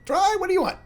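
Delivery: very high, loud squeaky halfling; chirpy barkeep greeting old friends; a high squeaky halfling barman; halfling bartender. Acted. Bartender voice continues.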